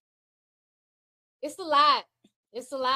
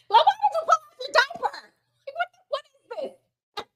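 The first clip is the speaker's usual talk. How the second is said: mock disbelief; 12 semitones higher than usual. Retold potty-training outburst.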